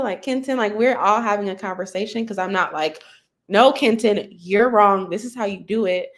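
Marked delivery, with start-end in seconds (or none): 3.5-6.1 mock scolding. Mock finger-pointing at colleague.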